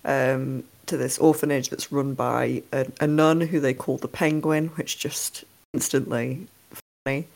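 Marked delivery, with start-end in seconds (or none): 4.7-7.3 whispered aside. Real, not acted. Aside about the nun's nickname.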